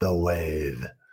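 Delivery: very low, deep, hushed rumble. Showing how the phrase has to be said, in a really low voice. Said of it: "you have to say it with a really low voice like that".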